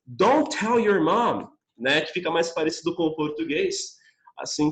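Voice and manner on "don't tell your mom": slow model. Shown as a demonstration. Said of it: "eu posso falar também".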